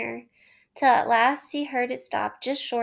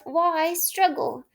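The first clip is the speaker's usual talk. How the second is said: Toad to himself; 5 semitones higher, much slower than usual. A narrator's reading.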